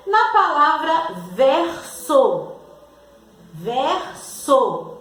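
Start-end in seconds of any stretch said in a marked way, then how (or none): 1.3-5.0 "verso" slowly split as ver-so with a clear S; "verso" drawn out so the S is heard; sounding out S. Shown as a demonstration. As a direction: stretch each syllable of "verso". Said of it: "o S está com som de Z?".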